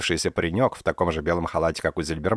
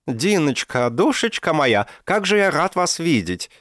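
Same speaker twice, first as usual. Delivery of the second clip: high, gushing welcome in a louder voice; gushing old professor; 10 semitones higher, 4 dB louder, slower than usual. A narrator's reading. Old professor gushes over Dinka, loud and high. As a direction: beam at her like a doting old uncle.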